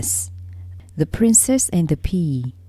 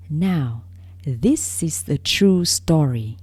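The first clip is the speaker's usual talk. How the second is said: story narration; 3 semitones higher than usual. A narrator's reading. Narrator reading a fairy tale to young listeners, storybook narration. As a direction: read it like a bedtime fairy tale.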